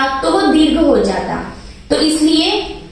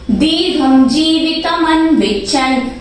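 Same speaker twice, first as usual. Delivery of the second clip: chanted verse line; shloka recitation. Shown as a demonstration. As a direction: recite it in the metre. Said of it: "मैंने बोला भी ऐसा ही था".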